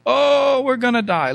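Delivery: hammed-up whine of despair; mock complaining. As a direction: imitate melodramatic grumblers. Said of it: "came again with complaining".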